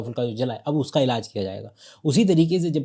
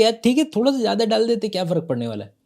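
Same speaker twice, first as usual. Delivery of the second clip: careless farmer; 7 semitones higher, faster than usual. Retold or imitated. Farmer voiced shrugging off dosage.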